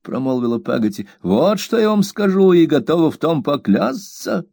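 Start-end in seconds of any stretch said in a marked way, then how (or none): 1.2-4.4 raised, firm housemaid voice; higher-pitched stubborn servant; stubborn servant Peggotty. A narrator's reading. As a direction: dig in your heels as the blunt maid.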